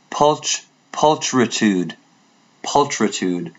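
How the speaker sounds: "Pulchritude" sounded out slowly, first syllable separated; careful pronunciation attempt. Shown as a demonstration. Asking Leanne if it is correct, careful attempt at "Pulchritude". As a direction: try out "Pulchritude" bit by bit. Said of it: "Am I saying it correctly?".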